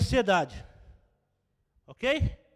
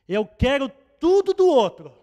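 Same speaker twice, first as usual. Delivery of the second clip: demanding; 6 semitones higher, 11 dB louder than usual. Pretend. Voicing a selfish demander.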